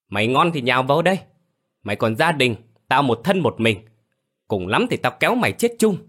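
defiant, fast and high; thách thức. Acted. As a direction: dare him to come at her. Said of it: "Hồng chống nạnh hất mặt sẵn giọng". (sẵn giọng thách thức)

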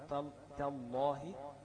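slow تالله with a heavy lam; drawn-out تال- then a full تالله; tajweed demo. Shown as a demonstration. Teacher models the word slowly for students. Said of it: "خد بالك إن التاء والألف إيه؟".

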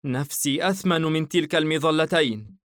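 stuck up high and calling down; girl, worried. Acted. الفتاة ترفض رمي نفسها. (صوت فتاة عالٍ جدا متوسل)

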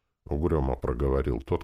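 ordinary delivery

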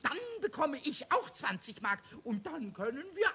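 chuckling through the words as the plan grows; giggling with glee. Acted. Pumuckl to Meister Eder about the reward, giggling. Pumuckl gleefully plans shopping spree.

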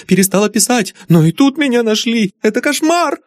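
very high, frantic, tearful-sounding plea; panicked young woman pleading; frightened daughter. Acted. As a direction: pour out her terror of her father.

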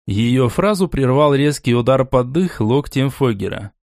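plain reading voice

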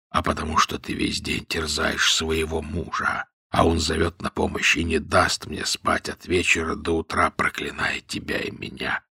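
low, soft, fading to a whisper; a feeble invalid complaining; faint voice trailing into a whisper; weak voice. A narrator's reading. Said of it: "царь ослабил голос".

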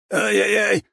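high yelp of pain. A narrator's reading. Bigby yelping while his finger is twisted. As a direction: cry out as the finger bends. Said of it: "выдохнул Бигби, зажмурившись от боли".

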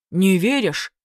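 a pouting monster taking offence; first head sulking because the hero doubts him; offended dragon head. A narrator's reading. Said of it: "обиженно насупилась первая голова".

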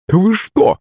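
high startled exclamation; exclaiming. A narrator's reading. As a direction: cry out in shock at the men. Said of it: "воскликнула симпатичная женщина". (воскликнула мадам в испуге)

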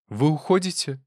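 high, despairing question. Acted. Wife in despair as husband leaves, high. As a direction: ask it with despair. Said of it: "с отчаянием проговорила".

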